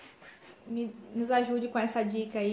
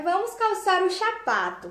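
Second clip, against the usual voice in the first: slow, much higher cooing adult voice; baby talk; 7 semitones higher than usual. Retold or imitated. Adult copying the child's word to the toddler, cooing. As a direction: coo it like talking to a toddler. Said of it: "achou bonitinho o que a criança falou".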